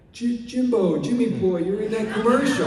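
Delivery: high, loud excited call; excited recognition. Retold or imitated. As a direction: recognize him with delight. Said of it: "and he goes".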